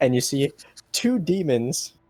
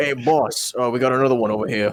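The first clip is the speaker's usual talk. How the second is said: put-on Boston accent. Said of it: "vaguely Bostonian accent".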